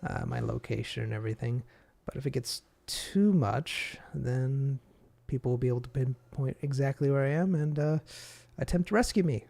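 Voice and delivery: a hint of a powerful demon; booming Demon Lord. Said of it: "the Demon Lord voice".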